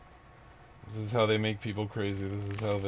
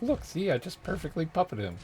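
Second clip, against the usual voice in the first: gloating evil spirit; 8 semitones higher than usual. Retold or imitated.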